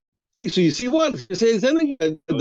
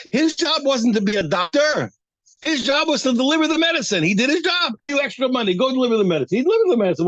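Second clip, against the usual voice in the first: emphatic point; 6 semitones higher than usual. Real, not acted. Teacher drives home the point.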